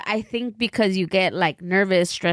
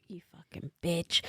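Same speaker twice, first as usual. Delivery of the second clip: muttered insult; 3 semitones lower, 11 dB quieter than usual. Retold or imitated. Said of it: "And I was like".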